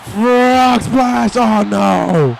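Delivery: high, loud calling of the move; excited shout. Real, not acted. Commentator calling the frog splash, shouting. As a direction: belt it out as he flies.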